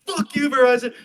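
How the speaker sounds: high-pitched, hammed-up outrage; fired-up rant. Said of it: "I'm getting fired up".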